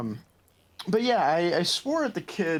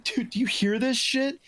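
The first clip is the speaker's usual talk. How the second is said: put-on kid friend voice; 10 semitones higher than usual. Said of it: "I was like".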